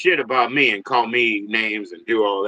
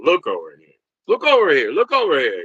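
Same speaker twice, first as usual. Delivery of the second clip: mock calling out; 4 semitones higher, 3 dB louder than usual. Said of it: "I get people to".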